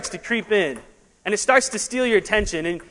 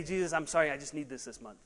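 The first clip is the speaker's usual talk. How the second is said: low, much softer mock prayer; hushed apology; 7 semitones lower, 14 dB quieter than usual. Worshipper excusing himself to Jesus over rent, hushed apology. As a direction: sink into a small, sheepish aside.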